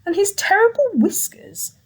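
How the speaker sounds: hushed scary description of the mouse; spooky whispered warning. Acted. Gruffalo warning his child about the mouse, spooky whisper. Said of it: "the Gruffalo said".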